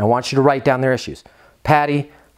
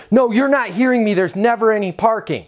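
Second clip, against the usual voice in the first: higher, insistent mock complaint from a tenant not being heard; mock exasperated tenant; 7 semitones higher than usual. Angry tenant to manager who ignores her, mild mock exasperation. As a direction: tenant repeating the complaint, a touch more heated. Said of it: "if you're just talking to somebody like this".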